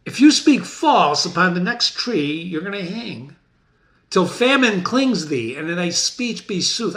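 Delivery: loud, high menace, slowing down; threatening Macbeth. Acted. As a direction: threaten him with the gallows.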